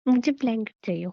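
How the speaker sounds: plain, curt grumpy demand. Acted. Wife wants a blanket, grumpy demand. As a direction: demand it like a grouch. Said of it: "वो तो मैं खड़ूस बन रही थी".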